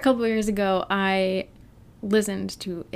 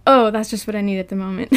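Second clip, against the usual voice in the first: laughing through the line; 9 dB louder than usual. Retold or imitated.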